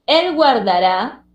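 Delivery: "Él guardará" slowed, with guar as one syllable. Shown as a demonstration. Teacher correcting a split, "Él guardará" slowly by syllables. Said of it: "guard debía estar en la misma sílaba".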